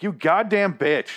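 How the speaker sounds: high, slow, loud disgust; indignant curse. Real, not acted. Viewer outraged at the mother, a slow, loud, high curse. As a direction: spit it out, outraged. Angry at Madison's exit.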